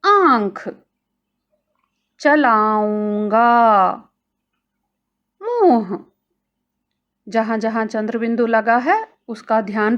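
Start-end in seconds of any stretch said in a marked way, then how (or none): 0.0-6.0 each word said apart, चलाऊंगा slowly, nasal vowels clear; model words. Shown as a demonstration. Teacher to children, careful word-list reading. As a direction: read आंख, चलाऊंगा, मुंह as separate model words. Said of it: "अगला शब्द".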